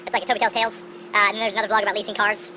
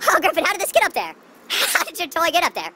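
laughing; 9 semitones higher, 5 dB louder than usual. Real, not acted. Laughing at the dog.

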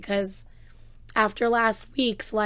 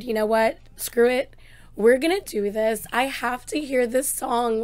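louder fired-up resolve; determined; 6 dB louder than usual. Retold or imitated. To viewers, deciding to react anyway, louder and resolved. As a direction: psych yourself up, loud. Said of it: "so I figured".

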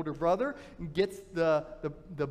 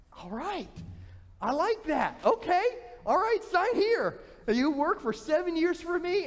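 eager deal-maker; 5 semitones higher than usual. Acted. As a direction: close the deal with glee. Laban accepts the deal.

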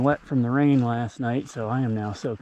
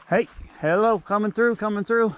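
coming through shout; 8 semitones higher than usual. Real, not acted. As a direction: sing out to warn animals ahead. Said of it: "Time to make a little noise".

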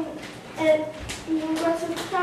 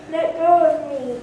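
louder, struggling; loud protest; 5 dB louder than usual. Acted. Tax collector grabbed by peasants, loud protest. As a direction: shake them off.

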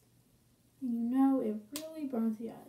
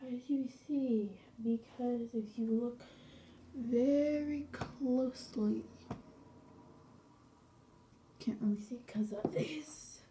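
talking through a stiff face mask; barely moving mouth. Real, not acted. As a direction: lips barely parted, mumbled. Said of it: "I'm not moving my mouth very wide".

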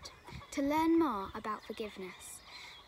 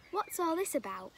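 raised, higher demanding shout; shouting robber; 6 semitones higher than usual. Acted. Robber bursting into the monk's hut, shouting. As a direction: burst in and confront him. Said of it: "he shouted as he burst".

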